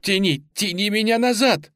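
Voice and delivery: high, loud frantic cry; panicked plea to be pulled back; shouting. Acted. Girl to classmate, frantic high shout. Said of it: "крикнула Настя Петрову".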